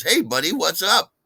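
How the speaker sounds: mock chirpy greeting, high and loud; peppy and chirpy. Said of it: "he tries all peppy and chirpy".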